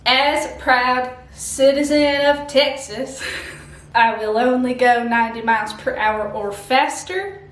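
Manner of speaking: proud mock Texas accent; terrible Texan accent. Proud Texas citizen making vows, mock Texan accent. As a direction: proclaim it in a put-on Texan accent. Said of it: "this terrible accent".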